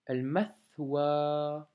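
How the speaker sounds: al-mathwa read slowly, each sound clear; slow careful reading. Shown as a demonstration. Teacher modelling an Arabic word, slowly. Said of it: "L, donc alif, lam".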